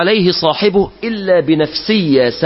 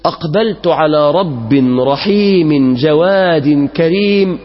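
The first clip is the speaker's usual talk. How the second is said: joyful smiling reply; slower than usual. Acted. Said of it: "قال فرحا مبتسما".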